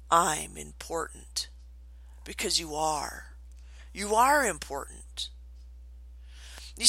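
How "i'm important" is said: softer, slower, heartfelt; with feeling and belief. Shown as a demonstration. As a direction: say it like you mean it. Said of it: "with feeling and belief".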